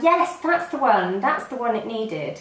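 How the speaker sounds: delighted reaction. Retold or imitated. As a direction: exclaim it like you've found the missing piece. Quoting her own delighted reaction.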